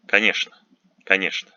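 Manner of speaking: конечно said "ka-NYESH-na"; Ч pronounced Ш. Shown as a demonstration. Teacher modelling a special case, конечно with "sh". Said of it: "but is pronounced Ш".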